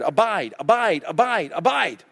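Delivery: "abide" repeated flat like a stuck record. Retold or imitated. Preacher mimicking Jesus as a stuck record, repeating abide. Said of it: "Jesus is a stuck record".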